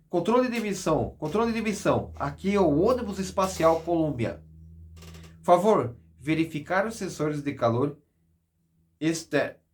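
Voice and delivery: urgent astronaut radio call. Acted. Shuttle radio call to control.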